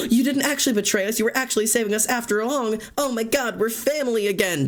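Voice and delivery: high, gushing relieved melodrama; mock-emotional happy ending; hammed-up reconciliation. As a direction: play the tearful reunion over the top. Acted reconciliation dialogue.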